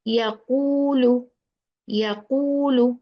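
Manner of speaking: slow "yaqulu" with rounded, extended u; rounded long u. Shown as a demonstration. Teacher shows wow mad to learners, rounded long u. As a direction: round the lips and stretch the "qu" in "yaqulu". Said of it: "we pronounce it with the".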